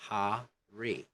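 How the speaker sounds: "Hurry" in two parts, "huh, ree"; unblended R. Shown as a demonstration. Teacher repeats British "Hurry" for students, R unblended. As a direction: keep the vowel in "Hurry" clear of the R. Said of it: "don't blend R with a vowel".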